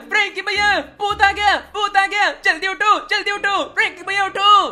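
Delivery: lightly voiced little boy in a panic; scared kid voice. Kids waking their big brother because of a ghost, frantic kid voice.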